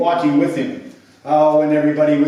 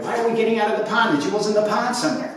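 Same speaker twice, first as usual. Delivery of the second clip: quick, higher-pitched grumbling question; puzzled protest; 7 semitones higher, much faster than usual. Acted. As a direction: rattle off the complaint in disbelief. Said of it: "They were like".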